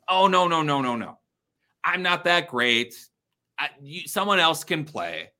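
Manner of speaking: loud, high, protesting no; overdone modest refusal; fake humility. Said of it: "that's fake humility".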